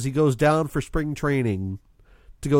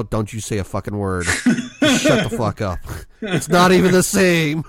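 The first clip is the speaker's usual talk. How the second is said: laughing mock warning; 4 dB louder than usual. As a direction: warn her off while cracking up. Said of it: "I go".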